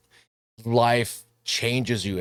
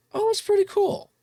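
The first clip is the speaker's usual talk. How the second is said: mock amazed. Quoting his own reaction to the film.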